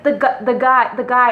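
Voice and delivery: mock speechless stammer; zszokowane jąkanie. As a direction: stumble and restart, imitating a friend lost for words. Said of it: "she couldn't even speak".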